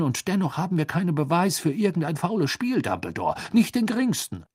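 high-pitched pompous minister; dismissive minister. A narrator's reading.

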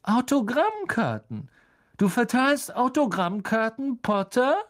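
high, cutting taunt; loud, sneering schoolboy bully. A narrator's reading. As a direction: call it out with scornful disbelief, high-pitched. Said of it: "Laut und schneidend hallte Draco Malfoys Stimme".

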